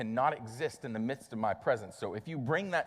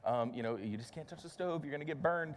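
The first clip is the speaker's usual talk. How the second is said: softer, higher comforting dad voice; calm the scared toddler gently; soothing a child; 5 semitones higher, 4 dB quieter than usual. Retold or imitated. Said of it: "pick him up and coddle him".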